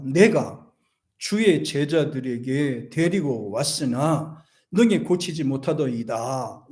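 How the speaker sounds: slow, measured Bible reading; unhurried recital of a verse; scripture reading. Acted. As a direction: read the verse out deliberately. Reads scripture aloud.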